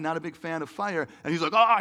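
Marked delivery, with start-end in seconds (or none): 1.5-1.8 mock cry of alarm; acted "aah" of panic; freaked-out yell. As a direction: yelp like a monster scared of fire. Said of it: "he starts freaking out".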